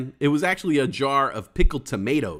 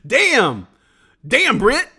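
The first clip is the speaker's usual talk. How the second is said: louder, higher shout at a chat roast; loud mock outrage; 8 semitones higher, 8 dB louder, much slower than usual. Real, not acted. Viewer roasts him in chat, loud stung shout. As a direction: yell it like you got burned.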